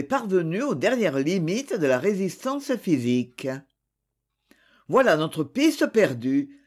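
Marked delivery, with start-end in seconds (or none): 4.9-6.6 equivocal tone. Acted. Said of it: "fit-il d'un ton équivoque".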